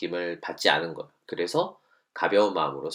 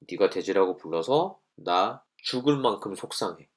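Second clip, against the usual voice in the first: a touch of overdone distress; exaggerated hurt. Shown as a demonstration. Teacher shows an overblown feeling, mildly overdone. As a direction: lay the hurt on a bit thick. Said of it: "이런 거예요".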